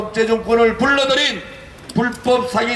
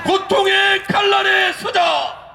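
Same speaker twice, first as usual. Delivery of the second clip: roaring rallying speech; 12 semitones higher, slower than usual. Real, not acted. Leader leads chanted slogan.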